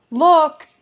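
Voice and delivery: high, loud alarmed cry. Acted. Kirsty spots the frozen pot and cries out. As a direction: cry out to stop everyone. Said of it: "she cried".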